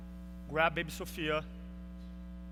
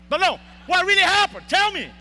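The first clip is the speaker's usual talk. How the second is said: insistent demand; 9 semitones higher, 9 dB louder than usual. Retold or imitated. Nurses pressing for the truth.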